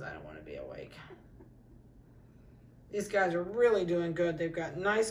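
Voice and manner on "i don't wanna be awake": much lower, softer grumble for the pup; grumpy puppy voice. Pretend. Breeder voicing a puppy who won't wake, low soft grumble. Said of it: "Oh, he says".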